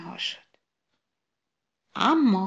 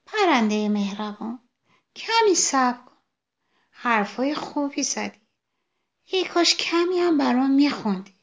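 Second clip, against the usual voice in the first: higher, sweetly begging little flower; begging sunflower; 5 semitones higher, 4 dB louder than usual. Acted. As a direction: coax the bird to sing. Sunflower begs for a song.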